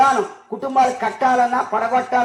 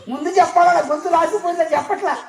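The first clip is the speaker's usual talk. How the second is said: exasperated woman; 7 semitones higher than usual. Retold or imitated. Woman complaining, voice lost.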